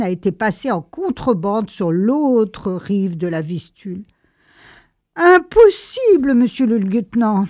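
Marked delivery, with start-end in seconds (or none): 5.1-7.4 Impossible cried out high and loud; shocked protest. A narrator's reading. Young teacher to the lieutenant, shocked and high-pitched. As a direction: gasp it out in disbelief.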